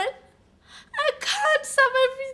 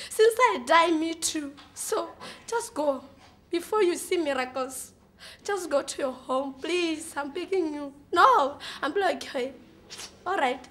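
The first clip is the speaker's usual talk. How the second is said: mock tender farewell; 6 semitones lower than usual. Low tender farewell to friend.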